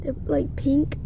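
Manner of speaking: talking with finger in mouth; finger pulling lip down. Real, not acted. Seen 0: Finger pulls lower lip down to show crooked tooth throughout.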